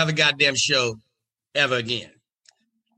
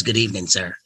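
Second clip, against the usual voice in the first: lower, calm and in charge; low cool Katt Williams voice; 7 semitones lower than usual. Retold or imitated. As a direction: ask like the man running the night. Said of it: "He says".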